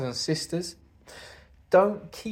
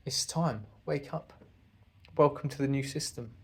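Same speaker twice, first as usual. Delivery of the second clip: gentle wake-up call; 5 dB quieter than usual. Pretend. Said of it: "gonna say to your loved one".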